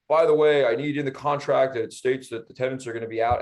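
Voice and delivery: a loud opening, then a light mock of a demanding buyer; lightly voiced know-it-all buyer.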